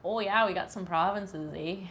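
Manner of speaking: lightly hammed-up rural Canadian accent; Canadian hillbilly. Streamer mocking her own talk to chat, Canadian hillbilly. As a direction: play up a Canadian hillbilly twang. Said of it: "talk like such a hillbilly sometimes".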